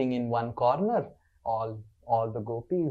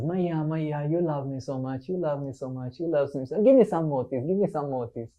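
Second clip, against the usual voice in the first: put-on child's insistent, repetitive begging; Krishna; 2 semitones higher than usual. Little Krishna begs mother for motis, wheedling. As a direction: wheedle in a quick run of pleas. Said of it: "Krishna says".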